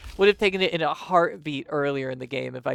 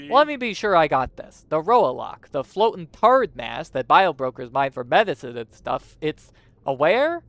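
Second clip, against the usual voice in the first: incredulous; 2 semitones higher, 6 dB louder than usual. Acted. Hero questioning the broker, loud incredulous. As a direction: make sure you heard right. Disbelief about the Roalock.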